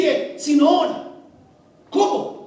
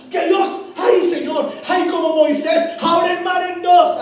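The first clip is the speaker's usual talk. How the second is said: mock dramatic prayer; 4 semitones higher, 4 dB louder than usual.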